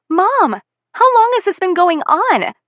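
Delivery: high, loud tearful yell; yelling and crying. Acted. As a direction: scream the question at her through tears. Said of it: "I'm yelling now and crying again".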